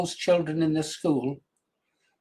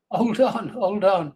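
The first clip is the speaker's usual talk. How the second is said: a light higher imitation of an eager little girl; little girl's voice; 4 semitones higher, slower than usual. Grandfather lightly imitating his granddaughter, asking him to wait. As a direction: lightly play the five-year-old asking him to wait.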